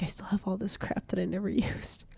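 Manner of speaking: half-laughing hushed admission; breathy laugh through the words; laughing whisper. Retold or imitated. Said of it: "I'm like".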